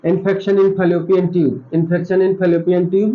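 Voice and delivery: slowly, word by word, so students can write it down; slow dictation. Shown as a demonstration. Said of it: "ये याद कर लीजिए". (धीरे-धीरे लिखवाते हुए)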